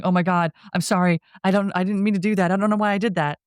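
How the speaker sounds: mildly frantic mock apology; a touch of panicked remorse, imitated; retold apologetic yelling. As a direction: gush out a retold apology, half-yelled. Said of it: "and he's yelling".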